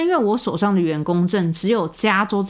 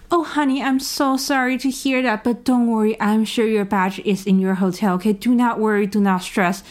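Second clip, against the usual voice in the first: mother-hen reassurance, lightly acted; worried, caring tone. Security guard comforting the narrator who forgot her badge, worried caring tone. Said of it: "担心的语气跟我讲说".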